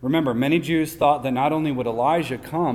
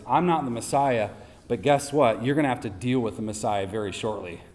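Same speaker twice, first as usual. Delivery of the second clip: plain; 4 semitones lower than usual. Retold or imitated. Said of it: "what's underneath his emphatic statement".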